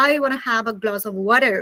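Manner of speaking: American-style water, r pronounced; American accent. Shown as a demonstration. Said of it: "belong to America or who is an American".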